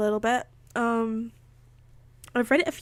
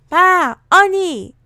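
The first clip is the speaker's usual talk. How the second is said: put-on high, slow, loud baby babble; 8 semitones higher, 8 dB louder, slower than usual. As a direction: squeal it like a toddler. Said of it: "baby babbling Tony's name".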